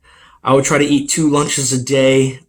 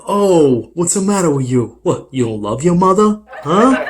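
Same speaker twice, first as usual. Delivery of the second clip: angry dad; 5 semitones higher, 3 dB louder than usual. Retold or imitated. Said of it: "He was like".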